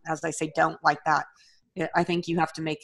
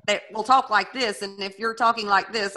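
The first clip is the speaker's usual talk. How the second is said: put-on Southern accent; 3 semitones higher than usual. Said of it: "too thick of a Southern accent".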